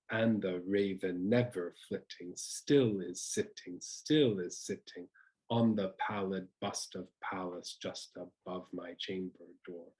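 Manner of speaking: exaggerated strong-weak beat on "raven never flitting"; over-the-top trochaic stress. Shown as a demonstration. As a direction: slowly hammer the first syllable of "still is sitting", "pallid", "chamber". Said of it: "I'm being a bit over the top for pedagogical reasons".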